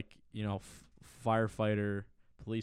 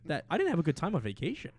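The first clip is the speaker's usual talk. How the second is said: mock pundit; 3 semitones higher, 4 dB louder, faster than usual. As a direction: rant like a cable news host.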